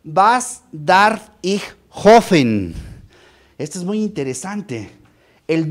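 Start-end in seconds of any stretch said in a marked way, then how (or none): 0.0-2.7 "Was darf ich hoffen?" read slowly in German, each word drawn out; careful, slow German reading of "Was darf ich hoffen?"; German quote. Shown as a demonstration. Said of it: "La tercera pregunta es".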